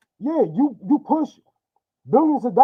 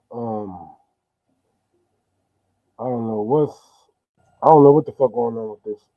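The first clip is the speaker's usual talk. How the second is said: into a cup; 8 semitones lower than usual. Real, not acted. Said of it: "you sound, um, pretty, um, kinda muffled there".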